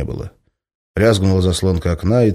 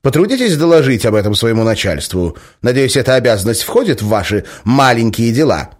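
insisting; 5 semitones higher, 5 dB louder than usual. Acted. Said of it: "настаивала Николаева".

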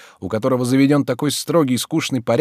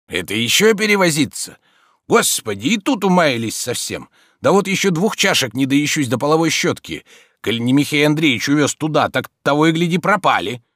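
put-on old servant's grumble, a touch higher; lightly voiced grumbling servant; 6 semitones higher, 4 dB louder than usual. A narrator's reading. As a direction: complain like a weary old valet. (слегка озвученный ворчливый слуга)

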